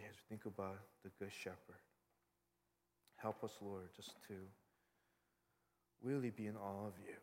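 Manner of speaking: measured prayer with long pauses. Real, not acted. Pastor to God closing the sermon, reverent unhurried prayer.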